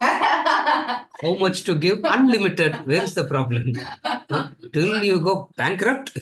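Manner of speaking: slow, laughing mock greed; laughing teasing. Real, not acted. Teacher joking that all gifts go to him, laughing slowly. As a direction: tease the class with a chuckle.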